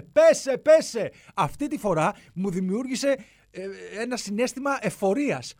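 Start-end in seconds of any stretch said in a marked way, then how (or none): 0.0-1.1 mock shout from below, higher and louder; neighbours shouting. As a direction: yell «Πέσε» back up at him. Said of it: "οι από κάτω να μου φωνάζουνε".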